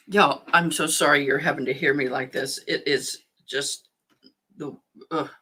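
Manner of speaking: watery-eyed, stuffy allergy voice; teary with allergies. Real, not acted. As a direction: talk through itchy, watering eyes. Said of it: "my eyes are watering".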